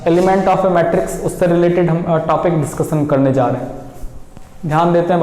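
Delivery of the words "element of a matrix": slow topic title. Shown as a demonstration. Teacher announcing the lesson topic to students, slow and deliberate. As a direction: stretch out element of a matrix slowly. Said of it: "हमारा जो topic हम start".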